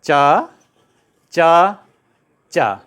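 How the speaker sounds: each च drawn out after a pause; palatal cha drill. Shown as a demonstration. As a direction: model च, long and separate, for repeating. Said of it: "बोलिए". (च का खींचकर तालव्य अभ्यास)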